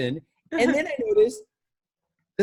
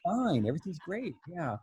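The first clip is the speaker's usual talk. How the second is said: feigned composure. Retold or imitated. Pretending calm to callers after yelp.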